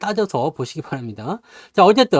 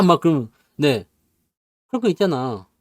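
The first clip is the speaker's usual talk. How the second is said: ordinary talk, nothing marked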